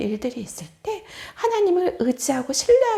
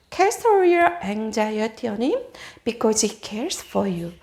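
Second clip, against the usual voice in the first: slow verse reading; 6 semitones lower, much slower than usual. Shown as a demonstration.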